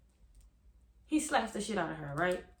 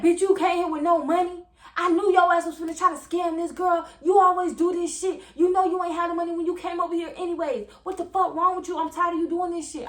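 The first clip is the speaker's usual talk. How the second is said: put-on higher and louder, furious yelling at his girlfriend; angry boyfriend; 6 semitones higher, 5 dB louder than usual. Boyfriend yelling at girlfriend for his keys, furious. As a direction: bark it like a furious man demanding his car.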